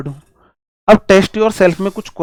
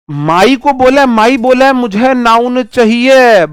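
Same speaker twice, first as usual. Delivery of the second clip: voicing the word; 7 semitones higher, 6 dB louder, slower than usual.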